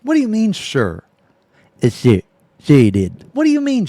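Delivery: usual speaking voice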